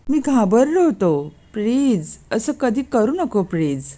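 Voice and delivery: drawn-out, imploring confession; anxious pleading. Acted. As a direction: beg her earnestly, with a touch of fear. Husband confesses fear, begs wife. (काकुळतीने विनवणी)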